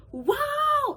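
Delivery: high, loud mock gasp of wonder; sister's shout. Sister thrilled by Keys to the Kingdom, high loud wow. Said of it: "My sister was like".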